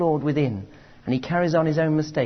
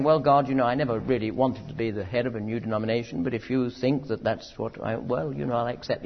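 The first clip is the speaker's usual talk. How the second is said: mock coy Moses; 5 semitones lower, 3 dB quieter than usual. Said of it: "Instead of Moses saying".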